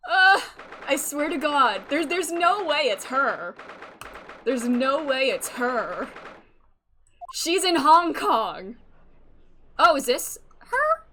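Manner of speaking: loud, slow shocked denial; shocked disbelief. Real, not acted. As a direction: refuse to believe it. Shocked at the witness reveal.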